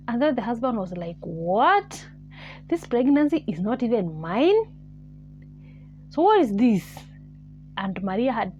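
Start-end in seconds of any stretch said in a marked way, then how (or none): 1.2-7.0 indignant disbelief. Retold or imitated. Voices husband confronting over the pregnancy.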